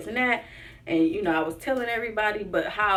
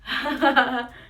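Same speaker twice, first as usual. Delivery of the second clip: nervous laugh; 4 semitones higher, 5 dB louder than usual. Real, not acted. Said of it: "nervous laugh".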